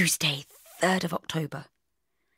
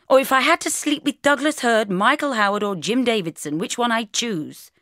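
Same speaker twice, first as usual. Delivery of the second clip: playful teasing; 7 semitones higher, 5 dB louder than usual. Acted. Bridget teasing Mark.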